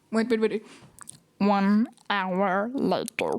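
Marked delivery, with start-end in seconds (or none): 1.4-3.3 slow, low narrator voice that came out like Stitch; a slow, low announcer take that slips into Stitch. Shown as a demonstration. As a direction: drag it out in a growly cartoon way. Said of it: "That sounds more like Stitch".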